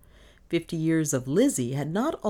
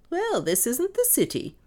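high, firm correction; decisive. A narrator's reading. Mistress overruling maid about the country, decisive. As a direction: settle the matter decisively. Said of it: "said Miss Cornelia decisively".

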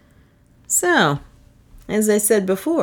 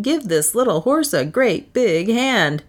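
bawled; 5 semitones higher than usual. Acted. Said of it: "I bawled".

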